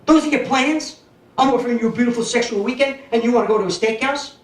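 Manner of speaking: a hammed-up scream down the phone; mock scream. Lady friend yelling at Joey over the phone, mock scream. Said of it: "She started screaming at me on the phone".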